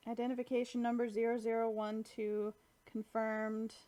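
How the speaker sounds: flat robotic announcement voice; mechanical voice. Retold or imitated. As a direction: read it like a machine. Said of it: "like, a mechanical voice".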